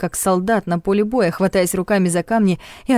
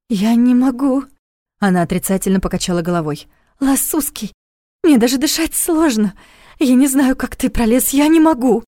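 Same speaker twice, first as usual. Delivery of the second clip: panicked; 5 semitones higher than usual. A narrator's reading. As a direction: plead in rising panic. Panicking trapped girl.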